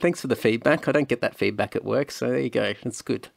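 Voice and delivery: mock sheepish reply. Husband answering Jess's teasing, hammed-up sheepish. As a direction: play it like a caught-out fool. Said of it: "And I go".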